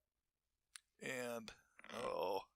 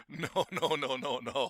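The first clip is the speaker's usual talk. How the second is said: louder, rising run of no's; firm refusal; 3 semitones higher, 6 dB louder, slower than usual. Retold or imitated. Refusing the debtor's check, loud and insistent. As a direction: shut the offer down hard, no after no.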